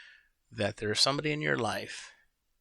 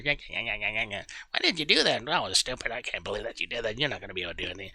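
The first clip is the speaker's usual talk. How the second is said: critical parent. Retold or imitated. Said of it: "when the critical one starts to".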